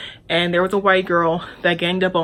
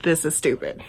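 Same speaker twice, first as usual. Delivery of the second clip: quiet, dropped-away mutter; said under breath; 3 semitones lower, 5 dB quieter than usual. Retold or imitated. Annoyed roommate waiting for the phone, under her breath. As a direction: grumble it low so nobody hears. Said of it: "Under my breath".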